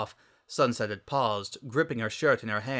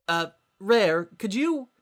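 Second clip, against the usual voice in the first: higher, halting ask; awkward request; 9 semitones higher, 4 dB louder, slower than usual. A narrator's reading. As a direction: ask a friend for a hand. Sunset asking for help.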